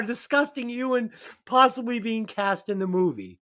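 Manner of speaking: words broken by laughter; laughing. Real, not acted. Host reads the fake fact while laughing. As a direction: read through giggles. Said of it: "I'd like you to repeat that one".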